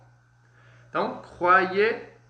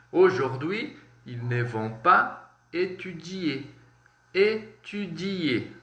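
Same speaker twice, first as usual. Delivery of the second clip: slow model pronunciation; slower than usual. Shown as a demonstration. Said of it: "slow model pronunciation for class".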